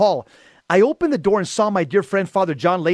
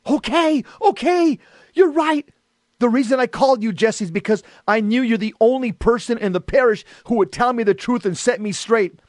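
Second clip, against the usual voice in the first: yelling; 4 semitones higher than usual. Retold or imitated. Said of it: "both screaming at each other".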